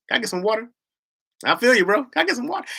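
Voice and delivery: "water" with a round aw and full r, high; mock proper "water"; standard water. Shown as a demonstration. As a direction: ask for "water" the LA way. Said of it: "I say water".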